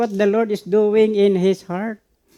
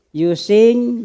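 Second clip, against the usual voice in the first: "You sing" pushed out louder and higher; top of your voice; 5 semitones higher, 3 dB louder than usual. Shown as a demonstration. Preacher urging the congregation to sing out boldly, loud. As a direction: belt "You sing" like singing out full. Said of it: "maybe at the top of your voice".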